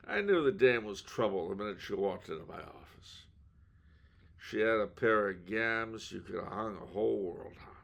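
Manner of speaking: a lightly voiced hard-boiled detective; noir detective. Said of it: "like a character out of film noir".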